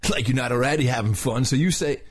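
lightly voiced surfer dude; mild surfer-dude delivery. Shown as a demonstration. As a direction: narrate with a hint of surfer. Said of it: "the whole thing in a surfer's voice".

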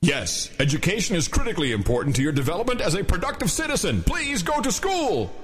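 booming giant voice, rising at the end. Shown as a demonstration. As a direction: boom it out like a giant. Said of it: "need to do that with giant voice".

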